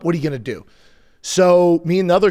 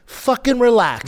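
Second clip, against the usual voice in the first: higher, drawn-out exasperation; exasperated retort; 7 semitones higher, slower than usual. Retold or imitated. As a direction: stretch it out, fed up with the ref. Arguing back at the referee.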